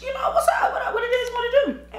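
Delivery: high laughing greeting; high excited reply. Retold or imitated. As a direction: answer bright and high. Retold own reply.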